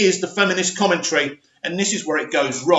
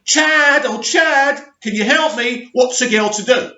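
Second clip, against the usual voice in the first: hammed-up helpless plea, mockingly imitating her; mock screaming; 6 semitones higher than usual. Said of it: "she's screaming".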